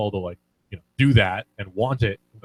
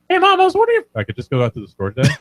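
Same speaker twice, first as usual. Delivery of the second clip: mock deep new voice; 3 semitones higher, 3 dB louder, faster than usual. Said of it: "I was like".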